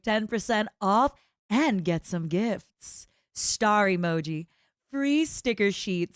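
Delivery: steady ad read; commercial voice. Shown as a demonstration. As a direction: read it like a radio ad. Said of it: "Give me something to read for commercial voice".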